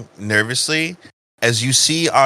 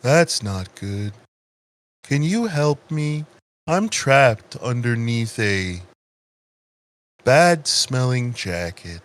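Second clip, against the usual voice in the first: sleep-inducing voice. Acted. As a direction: drift gently from phrase to phrase with long gaps. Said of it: "This man's voice makes me sleepy".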